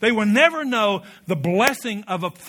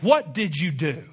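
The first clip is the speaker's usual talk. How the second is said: voice of God; 3 semitones lower, slower than usual. Acted. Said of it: "God looks at me and you and says".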